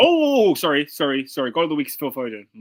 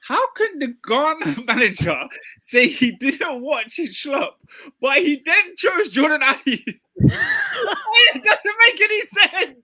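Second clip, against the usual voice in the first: incredulous rant; 9 semitones higher, 4 dB louder, slower than usual. Real, not acted. Incredulous rant about Ghana manager.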